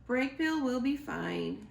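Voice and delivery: slow, reassuring robot mother; calm the otter kindly; a touch of friendly reassurance. Acted. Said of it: "using a friendly voice".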